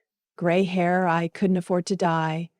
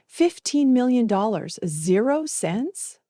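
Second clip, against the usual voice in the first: higher, slow, disbelieving repeat rising at the end; stunned echo; 4 semitones higher than usual. Acted. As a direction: say it back as if you can't believe your ears. Narrator echoes the sum in shock.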